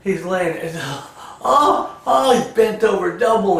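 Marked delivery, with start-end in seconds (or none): 1.4-2.4 high, loud pained moans; mock moaning. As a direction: moan like someone doubled over, hammed-up. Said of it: "he's crying and moaning and screaming".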